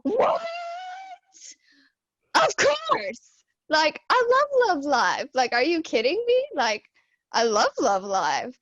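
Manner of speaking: high, loud fangirl shriek, easing at the end; retold excited scream. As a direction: re-enact screaming with excitement in his ear. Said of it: "I literally screamed in his ear".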